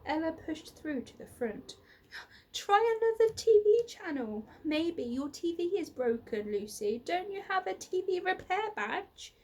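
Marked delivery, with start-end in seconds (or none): 2.5-9.3 higher, louder bossy demand; bossy girl ordering a boy. A narrator's reading. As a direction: insist impatiently. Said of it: "she demanded".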